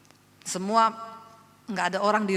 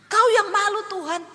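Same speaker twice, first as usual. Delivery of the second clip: high, loud mock challenge; threatening God; 11 semitones higher, 8 dB louder than usual. Preacher imitating believers who threaten God, loud challenge. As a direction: throw the challenge upward, imitated. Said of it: "Jangan ngancam Tuhan".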